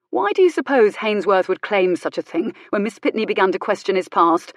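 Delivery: acted righteous anger, building; indignant challenge. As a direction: challenge them forcefully, question upon question. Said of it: "It was his tone as much".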